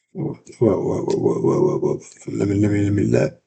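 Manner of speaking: flinch away from a blow in mock alarm; alarmed whoa. Acting out dodging a strike.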